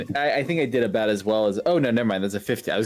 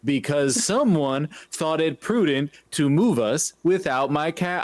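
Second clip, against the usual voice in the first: high, slow, drawn-out grievance; pointed calling out; 5 semitones higher, slower than usual. Acted. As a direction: stretch each word so it carries. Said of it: "I'm trying to shout loud enough".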